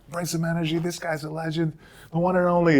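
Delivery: high-pitched mock stage introduction; big introduction. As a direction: retell a hyped-up host bringing on a legend. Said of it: "Don't give me a big introduction".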